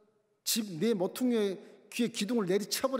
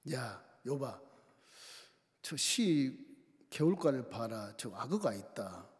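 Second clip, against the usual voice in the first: God's voice; 8 semitones lower, 4 dB quieter, slower than usual. Acted. God speaks to Job.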